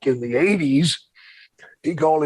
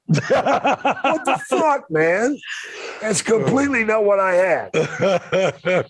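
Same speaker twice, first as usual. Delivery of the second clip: laughing disbelief; 5 semitones higher, much slower than usual. Real, not acted.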